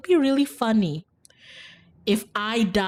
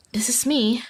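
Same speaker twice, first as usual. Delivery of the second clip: whisper; 4 semitones higher than usual. Acted. Character arriving at her door.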